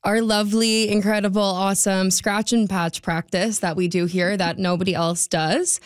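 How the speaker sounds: dry sarcasm, piling up the praise; sarcastic. Real, not acted. Traffic reporter on roadworks that affect her personally, sarcastic. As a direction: gush about it without meaning a word. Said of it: "sense the sarcasm in my voice".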